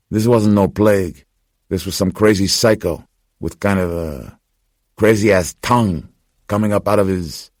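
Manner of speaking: Gus insisting it was no plague, fired up; Gus, agitated. Acted. Narrator voicing Gus, agitated.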